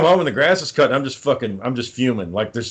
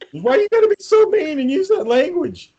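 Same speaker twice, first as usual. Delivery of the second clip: higher, whiny imitation of the wife; mock offended wife. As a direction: play the wife, huffy and put out. Wife's offended reply voiced.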